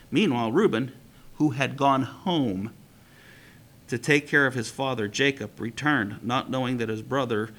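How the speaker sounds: steady read-aloud storytelling voice; story reading. A narrator's reading. Teacher reading a midrash to the class, storytelling.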